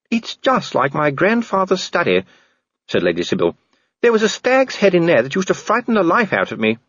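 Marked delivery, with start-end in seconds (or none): 0.1-2.2 higher, concerned lady's voice; a worried, well-bred woman asking gently; Lady Sybil. A narrator's reading. 4.0-6.8 higher, concerned lady's voice; a worried, well-bred woman asking gently; Lady Sybil. A narrator's reading.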